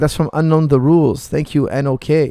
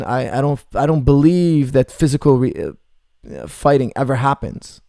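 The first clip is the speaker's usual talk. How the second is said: put-on sheltered old man. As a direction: play a sheltered man who has never seen a fight. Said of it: "he's one of those".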